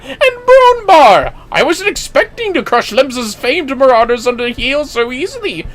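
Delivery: gushing with delighted surprise; excited lady warrior. Acted.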